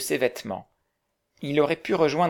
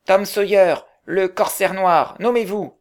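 loud pirate call; 6 semitones higher, 7 dB louder than usual. Acted. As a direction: announce yourself like a fearsome pirate. Pirate boy announcing himself.

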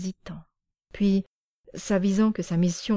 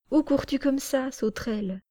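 higher, puzzled and amazed; astonished; 6 semitones higher than usual. Acted. Parmione surprised to find Sanka there, high and wondering. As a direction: sound caught off guard by the child. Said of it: "de plus en plus étonnée".

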